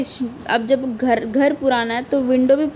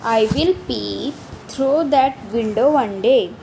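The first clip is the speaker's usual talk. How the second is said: slow poem reading; much slower than usual. Acted. Rereads poem line.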